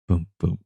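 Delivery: paired thuds, getting weaker; a heartbeat winding down; imitated slowing heartbeat. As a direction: let the heartbeat sink. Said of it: "it just slows down".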